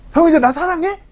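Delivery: high, loud, needy plea; mock pleading. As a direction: overdo the clingy begging for laughs. Repeated, much higher and louder.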